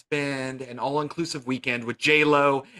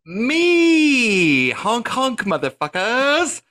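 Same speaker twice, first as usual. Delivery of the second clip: high, loud honking clown shout; silly clown; 12 semitones higher, 11 dB louder, much slower than usual. Acted. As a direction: yell it like a manic clown. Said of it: "my favoriteest clowns".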